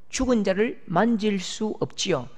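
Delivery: normal talking voice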